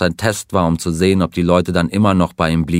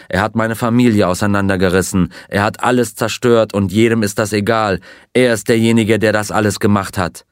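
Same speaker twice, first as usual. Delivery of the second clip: raging outburst; 2 semitones higher than usual. Acted. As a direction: narrator lightly voicing a raging, pleading man. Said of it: "Er tobte die ganze Nacht lang".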